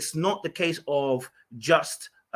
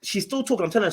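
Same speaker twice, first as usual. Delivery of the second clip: ordinary delivery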